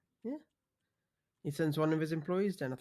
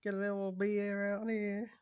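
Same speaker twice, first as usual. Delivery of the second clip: bad Australian accent; 4 semitones higher than usual. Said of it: "I don't think that's Australian".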